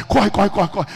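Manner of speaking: loud, rapid-fire urging; acted frantic hurrying; urgent calling out. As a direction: shout them into a run. Acted urging the woman to run.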